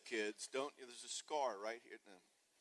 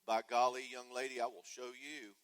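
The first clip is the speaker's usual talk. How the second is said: louder, hammed-up huffy parent; mock indignant parent; 9 dB louder than usual. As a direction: puff up and bluster at the kid. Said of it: "and you go".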